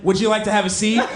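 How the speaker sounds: fast, sly creepy invitation; creepy offer. Retold or imitated. Man on the train offering women his seat, lightly creepy. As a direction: offer the seat a little too eagerly. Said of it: "I motion to myself as I'm like".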